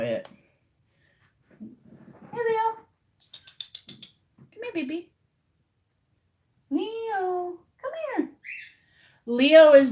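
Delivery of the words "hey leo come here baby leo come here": high, sweet coaxing call to the cat. Real, not acted. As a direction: coo for the kitten to come.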